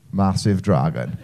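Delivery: low, slow, deadpan; deadpan reveal. Acted. Wales proudly answers the flag brief, deadpan reveal. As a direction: drop low and draw it out.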